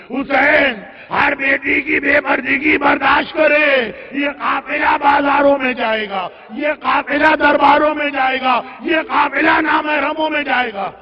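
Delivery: chanted, insistent mourning oratory; impassioned lament preaching. Acted. Preacher mourns the caravan's fate to the congregation, impassioned. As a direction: build the grief in ringing, repeated phrases.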